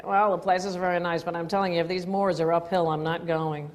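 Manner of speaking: imitated American tourist accent; lightly put-on American accent, even-paced. Host quoting an American tourist in Haworth, mild mock American accent. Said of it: "I heard an American tourist".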